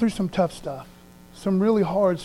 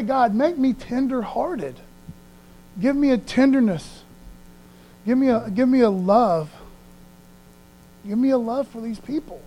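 pleading prayer; 4 semitones higher than usual. Shown as a demonstration. Praying to God for a tender heart, pleading.

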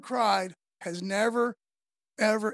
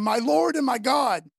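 exclaiming; 6 dB louder than usual. Acted. Thomas exclaiming to Jesus.

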